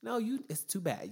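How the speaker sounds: high-pitched mock disbelief; exasperated rebuttal. Retelling a reply to spoiler complainers, exasperated and high.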